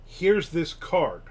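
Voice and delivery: a loud, high "But", then slow; a light imitation of an eager author; retold eager offer. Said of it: "He's like".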